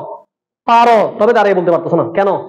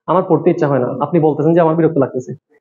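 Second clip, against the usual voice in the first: mock reluctant student; 5 semitones lower than usual. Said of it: "তুমি যদি বলো".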